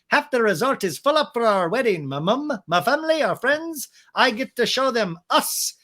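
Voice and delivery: high, pushed put-on voice; Brock impression. Groom boasting about the resort wedding, mock impression. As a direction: play him pitched well up, proudly showing off. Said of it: "Brock in a talking head goes".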